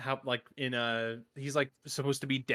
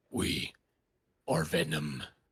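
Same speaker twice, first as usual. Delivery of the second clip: very low, deep voice, dropped way down; 10 semitones lower than usual. Asked on the fly for their best We Are Venom, the speaker gives a Venom voice. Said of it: "getting a little lower in the voice".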